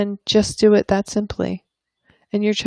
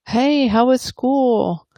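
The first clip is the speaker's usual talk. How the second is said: high, slow, sing-song greeting; upbeat mom calling hello; cheery parent; 7 semitones higher, much slower than usual. Acted. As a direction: ask brightly like a chirpy parent. Parent greets child after school.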